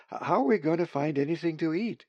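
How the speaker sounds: fast, stammering and fearful; young bird afraid of finding no food, panicky; frightened stammer. A narrator's reading. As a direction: blurt it out in a panic, stumbling at the start. Young raven fears hunger.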